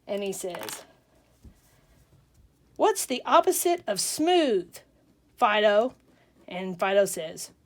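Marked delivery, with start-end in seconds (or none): 2.8-5.9 loud, higher show-off question; projected, animated quiz-master delivery; quizzing the dog. Acted. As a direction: act out a dog owner prompting a trick. Owner quizzing his dog.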